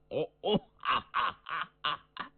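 chuckle, tickled pink; pleased laugh. Acted. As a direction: Cheng Yaojin laughing in delight. Cheng Yaojin laughs, pleased.

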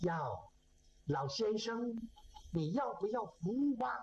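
lightly voiced woman offering her services; a hint of a female solicitor; soliciting woman. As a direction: raise the pitch a little, as a woman propositioning. Woman propositions old man at night.

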